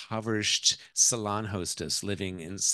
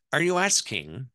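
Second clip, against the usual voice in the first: put-on higher, louder Irish-accented challenge; 5 semitones higher, 6 dB louder than usual. Mother-in-law questions the wife's motive, Irish accent. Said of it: "that's my Irish accent".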